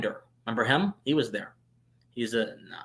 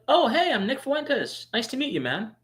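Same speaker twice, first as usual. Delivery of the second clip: imitating Nick; 13 semitones higher than usual. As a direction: do a light caricature of his greeting. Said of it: "He's like".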